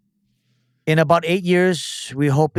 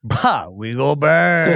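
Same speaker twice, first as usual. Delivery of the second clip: slow, stretched-out holler on the last word; triumphant realization; much slower than usual. Real, not acted. Player gets the answer for his crew, triumphant. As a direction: draw it out as a rallying call.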